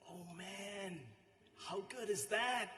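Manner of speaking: high, drawn-out savouring; mock swoon over a delicious mouthful; imitated food rapture. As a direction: relish it like a blissful foodie.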